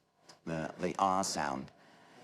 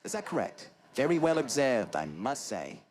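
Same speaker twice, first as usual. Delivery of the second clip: lightly hammed nasal techie, pitched up then dropping; Maurice Moss; 5 semitones higher than usual. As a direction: play the formal nasal British nerd. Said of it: "an impersonation of Maurice Moss".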